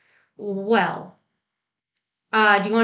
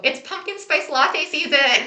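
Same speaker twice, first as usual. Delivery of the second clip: put-on basic white girl; 6 semitones higher than usual. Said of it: "I was about to do my basic white girl impression".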